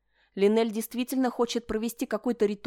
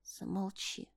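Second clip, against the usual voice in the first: barely voiced, much softer; very quiet; 11 dB quieter, slower than usual. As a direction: let it drop almost to nothing. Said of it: "уже совсем тихо отозвалась".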